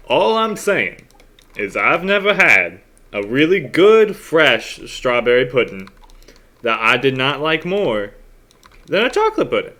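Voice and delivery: hammed-up pudding debater; arguing character voice. Player voices arguing guild member.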